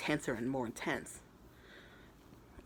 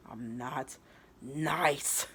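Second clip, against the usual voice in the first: halting, then a loud "nice"; mock tearful defiance; 3 dB louder, much slower than usual. Rival with tears in her eyes, mildly acted defiance. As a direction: break before "nice" and push it out hard. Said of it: "like, tears in her eyes".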